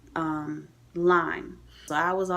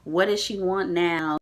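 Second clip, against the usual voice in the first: slow, lightly imitated weary nurse; a touch of nurse's impatience; retold exasperated nurse; slower than usual. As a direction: drag it out with mild exasperation. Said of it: "I could tell in her voice".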